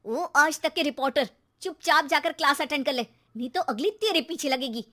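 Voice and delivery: loud scolding threat; threatening. Acted. Mother threatening son with slipper, loud. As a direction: warn him off.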